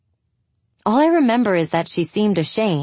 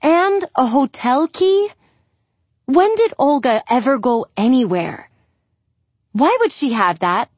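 losing patience; 6 semitones higher than usual. Acted. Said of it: "I'm starting to lose my patience".

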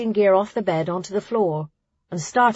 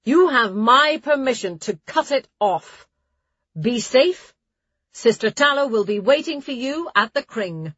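raised abbess address over gale; shouting over wind; 4 semitones higher than usual. Acted. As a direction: project over a howling wind. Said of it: "had to shout above the wind".

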